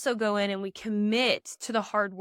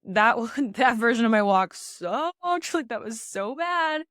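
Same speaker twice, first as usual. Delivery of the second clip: laughing self-critique; 4 dB louder than usual. Retold or imitated. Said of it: "where I can say".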